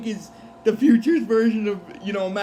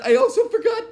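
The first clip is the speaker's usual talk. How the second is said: high-pitched talk through bursts of laughter; real laughing fit; 10 semitones higher than usual. Real, not acted. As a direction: still cracking up, squeezing words out. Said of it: "I'm actually glad I'm laughing now".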